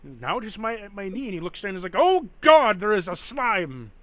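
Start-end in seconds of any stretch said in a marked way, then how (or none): 2.0-3.9 high, loud cry of alarm; panicked son. Acted. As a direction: play a frightened son shrieking a warning. Son spots a slime on his leg.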